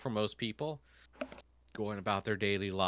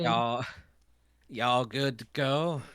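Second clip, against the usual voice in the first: slow, drawn-out stoner; easygoing driver checking in; laid-back stoner voice; 4 semitones higher, 7 dB louder, slower than usual. Acted. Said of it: "stoner voice".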